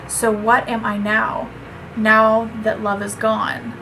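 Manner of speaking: measured, understated poetry recital; steady, restrained reading of a poem. Acted. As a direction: read it evenly, phrase by phrase, letting line ends drop.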